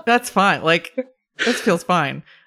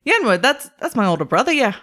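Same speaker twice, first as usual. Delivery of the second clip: put-on Boston-accented gnome, high at the start; lightly acted Boston accent for a gnome; attempted Boston accent; 5 semitones higher than usual. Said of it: "Gnomish basically sounds like the Boston accent".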